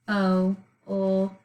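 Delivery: "F-o-o-k" as four spaced sounds; think-to-spell pronunciation. Shown as a demonstration. Teacher dictating while pupils write, sound by sound. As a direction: sound out "F-o-o-k" with the silent L voiced as ull. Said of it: "we're going to think to spell".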